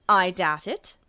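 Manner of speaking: low, dry officer's reply; lightly voiced low officer; curt officer. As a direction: brush him off.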